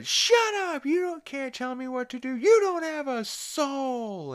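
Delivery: high, loud imitation of a furious outburst; angry yelling. Chris lashing out at Brian during a fight, angry yelling. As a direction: yell shrilly high, stretching the final insult.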